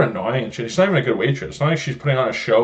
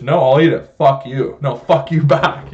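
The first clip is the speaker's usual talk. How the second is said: loud mock defiance, a little higher; defiant retort; 3 semitones higher, 5 dB louder than usual. Son imitating his dad refusing at a restaurant, loud mock defiance. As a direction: fire it back like a stubborn diner.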